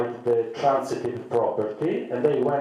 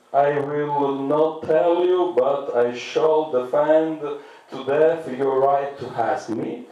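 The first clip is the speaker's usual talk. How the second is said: Voltaire pronouncing; 3 semitones higher, slower than usual. Acted. Voltaire answer acted, slow.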